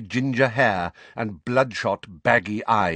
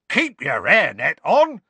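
raised, defensive protest; cowering; 8 semitones higher, 7 dB louder than usual. A narrator's reading. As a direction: fend off blows with your words.

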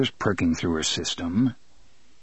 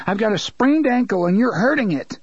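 angry protest; 9 semitones higher than usual. Acted. Son struggling against father.

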